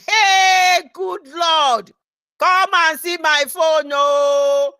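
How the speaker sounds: the crowd cheering at the good news; excited exclamation. Retold or imitated. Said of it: "all of them".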